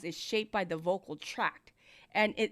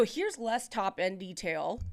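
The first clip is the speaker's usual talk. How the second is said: off-mic demo; 2 semitones lower, slower than usual. Shown as a demonstration. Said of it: "now do you hear the less".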